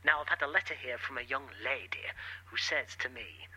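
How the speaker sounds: Jimmy Savile impression. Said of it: "you can't do that impression".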